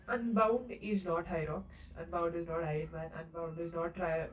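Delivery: tired, low murmur. Real, not acted. Tearful closing after heavy talk.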